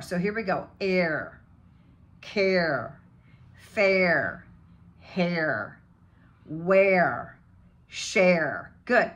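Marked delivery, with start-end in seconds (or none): 0.8-8.7 long air, care, fair with strong curled R; hard American R. Shown as a demonstration. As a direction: drill each word slowly, ending on a hard retroflex R. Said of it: "bring in that hard R".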